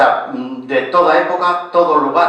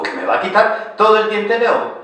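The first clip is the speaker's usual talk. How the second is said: higher-pitched incredulous question; retold disbelief; 9 semitones higher than usual. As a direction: echo it back in mock disbelief. Retells own shock at landlord.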